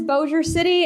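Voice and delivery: Bossier City said "BOE-zher City"; local pronunciation. Shown as a demonstration. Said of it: "pronounce those the correct way".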